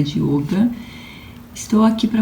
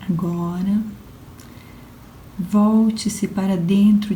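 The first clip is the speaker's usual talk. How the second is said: guided relaxation. Acted. Yoga instructor guiding listeners lying on the floor, guided relaxation.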